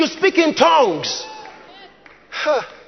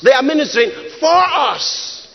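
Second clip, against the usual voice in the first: FOR leaned on firmly before "us"; stress on FOR. Shown as a demonstration. Preacher correcting "to us" with stress on FOR. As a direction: put the weight on the word "for". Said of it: "that's different from functioning or ministering to".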